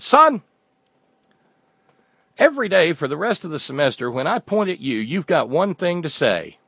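a hint of a booming law professor; barked opening, then quick and clipped; commanding professor. Professor to a first-year student, commanding.

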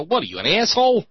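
high, loud mock angry cop; mock cop interrogation. Cops confronting a dancer, high loud mock interrogation. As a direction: grill the dancer like a hostile cop. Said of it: "they'll come up to you and go".

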